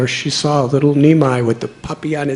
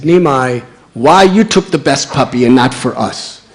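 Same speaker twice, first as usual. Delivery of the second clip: put-on loud complaining boy; a sore, accusing boy; indignant shouted grievance; angry boy; 7 dB louder than usual. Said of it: "one of the boys was angry".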